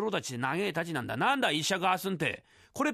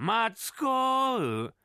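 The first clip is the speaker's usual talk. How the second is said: mock copy of the halting call, lightly higher; mimicking the reader; 4 semitones higher, much slower than usual. Matsu teasingly echoing the stumbling reader, slow mock call. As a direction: parrot the reader's slow call back at him. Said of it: "真似すんな".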